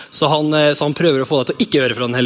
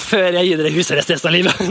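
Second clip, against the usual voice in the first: mock stern dad threat; faster than usual. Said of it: "Da må jeg si".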